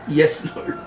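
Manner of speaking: "Yes, Lord" with a big rise on "Lord"; sing-song yes lord. Shown as a demonstration. Preacher waking a dozing class with a lilting call. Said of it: "Pag sinabi kong, "Yes, Lord".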